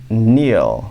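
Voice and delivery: "Neil" said "neel", long ee then l; pronunciation demo. Shown as a demonstration. Teacher contrasts "Neil" with "nu" for students. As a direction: say "Neil" with a clear ee and l. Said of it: "Olha a diferença dessa pronúncia aqui".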